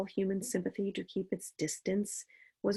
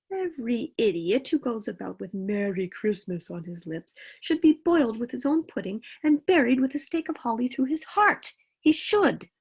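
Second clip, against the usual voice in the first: rising, louder indignant tirade; 3 semitones higher, 4 dB louder than usual. Acted. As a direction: build into outraged scorn. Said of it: "said Scrooge indignantly".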